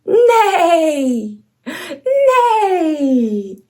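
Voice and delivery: whinny like a horse; playful neigh for a child. Shown as a demonstration. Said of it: "Can you neigh like a horse?".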